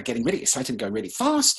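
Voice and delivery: speeding up with excitement; quick excited burst; excited and fast. Shown as a demonstration. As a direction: rush it out, getting excited. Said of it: "as I just did there".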